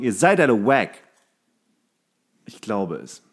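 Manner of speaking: normal talking voice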